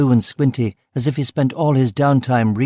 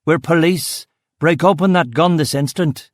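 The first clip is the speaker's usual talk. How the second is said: raised commanding voice; mild mock howl; 4 semitones higher than usual. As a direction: demand it with force. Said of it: "I howled at the fucker".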